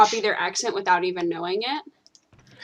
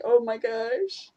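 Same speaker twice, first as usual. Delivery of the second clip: slow, stretched-out Oh my gosh; drawn-out exasperation; 3 semitones higher, slower than usual. Retold or imitated. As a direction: let Oh my gosh sag slowly in disbelief. Exasperated reaction to a stereotype.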